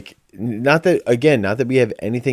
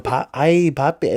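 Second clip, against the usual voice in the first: higher, overacted ay papi; hammed-up mom voice; 5 semitones higher than usual. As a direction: play a hammy TV mom. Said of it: "she's going".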